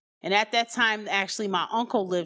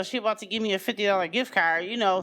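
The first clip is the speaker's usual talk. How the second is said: self-talk coaxing; faster than usual. Retold or imitated. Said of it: "I'm like".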